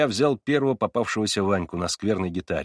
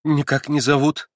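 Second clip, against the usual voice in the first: short, clipped refusals, louder by the end; curt and annoyed; 3 semitones higher, 3 dB louder than usual. A narrator's reading. Girl refusing to give her name, curt and annoyed. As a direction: brush him off with irritation. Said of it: "Отрывисто и как будто с досадой".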